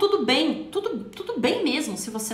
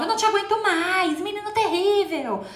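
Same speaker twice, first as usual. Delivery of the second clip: higher, exasperated scolding mother; mock yelling mother; 6 semitones higher, 3 dB louder than usual. A mother yelling at her child, exasperated scolding. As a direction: snap at the child like a fed-up mom. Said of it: "E, e gritavam".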